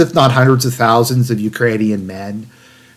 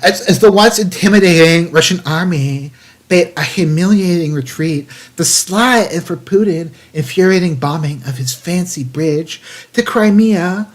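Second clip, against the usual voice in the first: put-on higher, lilting Valley Girl read; 6 semitones higher than usual. Shown as a demonstration. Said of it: "I might have to do the Valley Girl voice for this after all".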